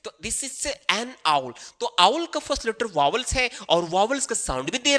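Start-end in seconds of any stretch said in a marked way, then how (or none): 0.2-1.5 "this is an owl" slowly with is stressed; slow demo sentence, is leaned on; slow classroom demo. Shown as a demonstration. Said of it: "ठीक है ना".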